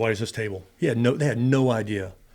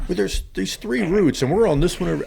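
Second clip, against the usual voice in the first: mock reporter; 7 semitones higher, 6 dB louder than usual. Geraldo on TV revealing troop routes, hammed-up imitation. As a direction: ham up the TV reporter giving away the route. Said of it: "He goes".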